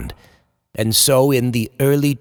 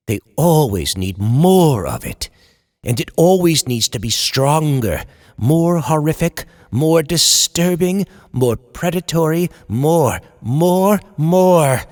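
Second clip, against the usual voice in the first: building frenzy; 4 semitones higher than usual. Acted. Writer losing it over the audience's hunger, building to a shout.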